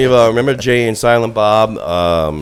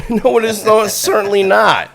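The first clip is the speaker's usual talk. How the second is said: laughing; 12 semitones higher than usual. Real, not acted. Laughing off a crude jab.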